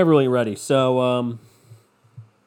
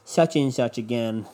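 mock angry parent; 3 semitones higher than usual. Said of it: "they're like".

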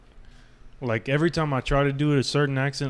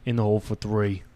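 put-on muddled British-Italian accent, slightly lower; British-Italian crossover accent; 3 semitones lower than usual. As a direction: attempt British, slipping into Italian. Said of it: "British Italian crossover".

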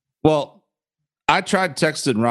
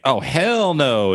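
drawn-out, higher mock outrage; feisty defiance; 5 semitones higher, much slower than usual. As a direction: imitate a tiny girlfriend squaring up. Acts out feisty small girlfriend.

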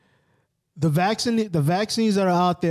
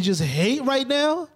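1 slow emphasis; 8 semitones higher, much slower than usual. Real, not acted.

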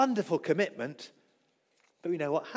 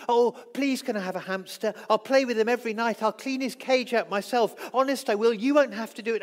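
put-on higher, louder begging like an eager child; pleading child; 5 semitones higher, 5 dB louder than usual. A child begging a parent for a hamster, eager and pleading. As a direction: wheedle like a kid promising anything.

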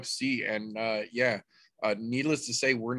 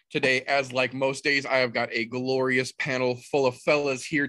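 ringmaster. Acted. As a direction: hype the crowd like a circus ringmaster. Host opens the show.

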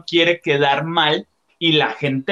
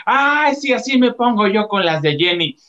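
mock fan reaction; 5 semitones higher than usual. Voices viewers identifying with singer.

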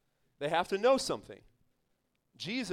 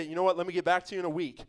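mock stalling; faster than usual. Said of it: "without having to say".

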